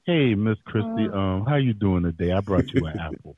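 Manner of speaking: a lightly voiced deep little boy charming the teacher; mock deep-voiced schoolboy. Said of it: "This nigga was in elementary school".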